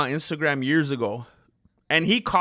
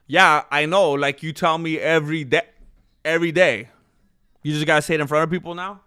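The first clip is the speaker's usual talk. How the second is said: exasperated; 5 dB louder than usual. Real, not acted. Teasing reply to off-camera partner.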